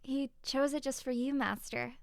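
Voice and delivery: a hint of a bright servant girl answering her master; eager young maid.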